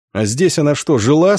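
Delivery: a wondering question, rising on «жила»; self-questioning. A narrator's reading. Coachman asking himself whether she had lived here, puzzled question. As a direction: ask yourself, lifting the last word. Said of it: "спросил он сам себя".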